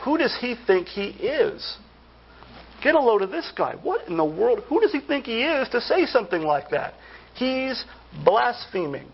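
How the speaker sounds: indignant scoff at an upstart; who-does-he-think-he-is scorn; contemptuous. Acted. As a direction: act out mildly scandalized disdain. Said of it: "we say it like this".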